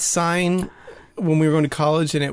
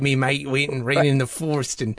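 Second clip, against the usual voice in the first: put-on Cockney accent. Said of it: "a Cockney accent? Is he like".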